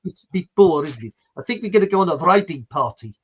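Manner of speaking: lightly put-on South African accent. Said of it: "do you like my bit of South African".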